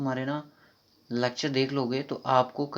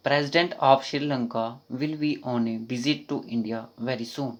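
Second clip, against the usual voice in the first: slow reading aloud; much slower than usual. Shown as a demonstration. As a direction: read the question slowly and clearly. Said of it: "reading the question slowly".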